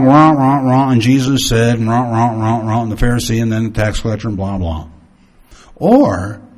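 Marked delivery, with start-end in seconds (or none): 0.0-4.9 droning monologue. Shown as a demonstration. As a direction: read it like a bored monotone. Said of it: "you can have a monologue".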